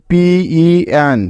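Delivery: পিই এন drawn out slowly, letter by letter; slow spelling. Shown as a demonstration. Teacher building the syllable for students, slowly. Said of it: "spelling out the syllable".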